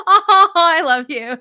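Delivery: loud, high burst of affection; gushing affection. Real, not acted. Answering a viewer who says they're crying already, gushing. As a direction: gush it out after a laugh. Touched by viewer's emotional comment.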